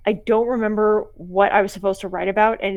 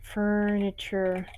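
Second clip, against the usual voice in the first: whispering while writing; 5 dB quieter, much slower than usual. Real, not acted.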